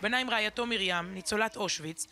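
measured, restrained news-feature narration; documentary voice-over. Acted. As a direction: narrate a solemn memorial report, evenly. Recorded report narration voice-over.

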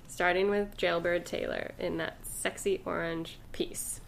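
soft unvoiced whisper. Real, not acted. Whispering to her co-host about the sexy outfit. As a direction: breathe it like a secret.

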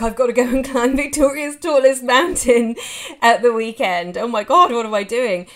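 mock panicked inner voice. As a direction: act out the dread of the climb. Imitating panicked inner thoughts.

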